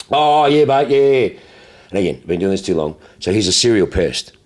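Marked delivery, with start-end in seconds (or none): 0.1-1.4 drawn-out, put-on "oh yeah, mate"; mock eager agreement. Caller answers the dealer about his car inquiry, mock eager. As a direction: play up the caller's ready agreement.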